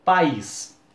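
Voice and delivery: pa-ÍS, mouth opens twice on país; said in two syllables. Shown as a demonstration. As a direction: split país into pa and ís. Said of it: "se eu falar assim a palavra".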